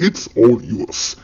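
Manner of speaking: very slow, each word laid out for learners; slow teaching demo. Shown as a demonstration. Teacher modelling an English phrase for Malayalam learners, very slow. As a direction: spell the phrase out slowly so students can copy it. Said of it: "ഇതെങ്ങനെ ഇംഗ്ലീഷിൽ പറയാം?".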